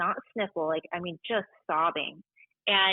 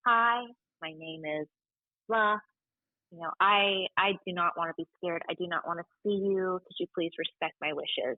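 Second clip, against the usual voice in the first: polite request. Shown as a demonstration. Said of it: "And I would just simply say".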